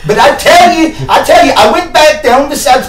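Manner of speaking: hammed-up Irish accent, slightly drunk pirate. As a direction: shout it like a swaggering Irish pirate. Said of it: "Your Irish accent kills me".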